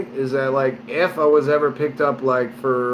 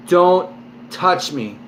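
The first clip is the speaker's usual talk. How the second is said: stern warning tone; slower than usual. Retold or imitated. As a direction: warn him off, hard and firm. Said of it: "in that tone".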